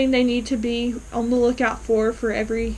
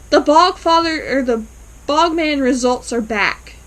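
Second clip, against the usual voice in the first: mock urgent announcement, higher and louder at first; excited announcement; 3 semitones higher, 5 dB louder than usual. Elaine storming in on doctor and patient, excited. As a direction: burst in with the news.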